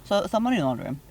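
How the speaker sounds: talking around ice cubes; words muffled by ice in mouth. Real, not acted. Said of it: "you got ice in your mouth".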